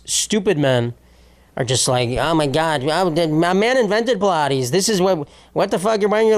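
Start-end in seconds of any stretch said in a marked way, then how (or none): 2.1-6.4 lightly voiced outraged dimwit, rising in pitch; mock dense men. Host mimicking men commenting on a Pilates video, mock dense outrage. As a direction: imitate clueless commenters working themselves up. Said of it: "all the, these dense men".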